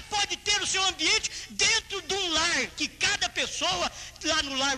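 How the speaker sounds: high, driving preacher's exhortation; preaching at full force. Real, not acted. Preacher urging congregation to make their own environment, full-force preaching. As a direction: raise the voice and stretch out the commands.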